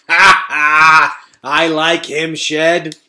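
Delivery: high, loud laughing rat; howling laugh. A narrator's reading. Fangor howling with laughter to Shed. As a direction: howl with amusement. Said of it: "howled Fangor".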